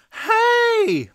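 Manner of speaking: high, loud "hey"; indignant yell. A narrator's reading. Buster objecting to his little friend's remark, indignant yell. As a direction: call out in loud protest. Buster protests at being insulted.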